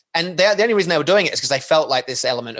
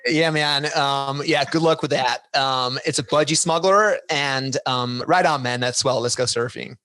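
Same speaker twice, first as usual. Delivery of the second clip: put-on American accent; slower than usual. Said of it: "that was my American accent".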